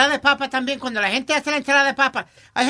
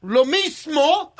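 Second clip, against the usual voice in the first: incredulous; 2 semitones higher, much slower than usual. Real, not acted. Incredulous reply.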